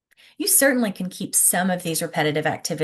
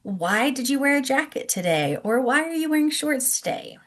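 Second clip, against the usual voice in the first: kindergarten teacher voice; 4 semitones higher than usual. Shown as a demonstration. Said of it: "So asking them".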